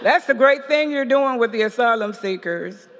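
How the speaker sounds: friendly priest's praise, only lightly put on, with a chuckle; Father Jim's voice. Father Jim praising Lydia's asylum work, lightly voiced priest. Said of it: "let me get his voice".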